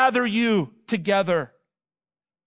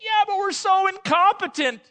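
higher whiny mock believer; whiny self-pity; 11 semitones higher, 3 dB louder than usual. Preacher voicing believers excusing themselves, high whiny mock. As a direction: pitch it up like a sulky excuse. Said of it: "We're like".

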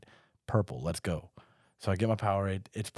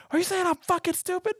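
drill sergeant. Retold or imitated. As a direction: bark it like a furious drill sergeant. Recruit retells sergeants yelling.

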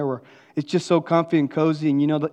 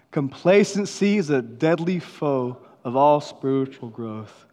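slower, weightier reread; slow emphatic reading; slower than usual. Shown as a demonstration. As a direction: read it slow, every word weighed. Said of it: "One more time".

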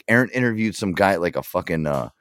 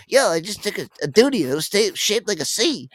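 imitating Aaron; 10 semitones higher than usual. Aaron's call retold.

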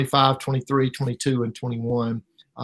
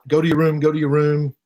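retold urgent order, louder and repeated; urgent command; 2 semitones higher, 4 dB louder than usual. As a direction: send the kids away urgently, reenacted. Father urgently sending his boys away.

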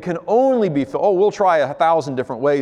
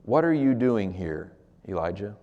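soft voice of God; 7 semitones lower, 6 dB quieter than usual. Acted. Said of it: "Then a voice said to him".

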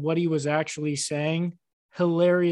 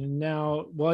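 ordinary talk

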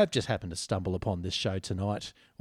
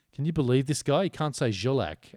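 retold exasperation, slightly raised pitch; exasperated; 3 semitones higher than usual. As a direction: complain to a mate in mock disbelief. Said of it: "sheer exasperation".

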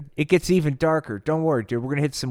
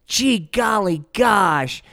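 dejected gee golly gosh; 5 semitones higher, 3 dB louder, slower than usual. Acted. Slider dejected.

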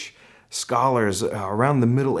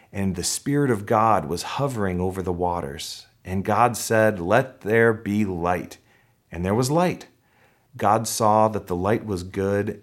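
measured, lower-pitched Bible reading; scripture reading; 3 semitones lower than usual. Acted. Pastor reading Genesis to the congregation, measured scripture reading. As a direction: read the verses aloud, weighing each phrase.

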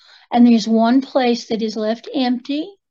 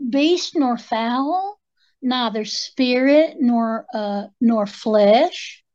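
slow solemn incantation; much slower than usual. Acted.

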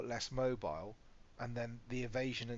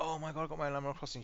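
excited daughter quote; 4 semitones higher, faster than usual. Retold or imitated. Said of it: "she was like".

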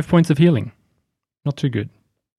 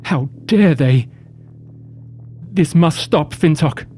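understated, solemn indignation at a sacrilege; upset Anastasia. Acted. Character sees the desecrated temple and protests, upset. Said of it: "She's upset quite a lot".

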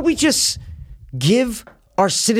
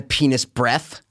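quoted movie line; 3 semitones lower, much slower than usual. Retold or imitated. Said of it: "What's that from?".

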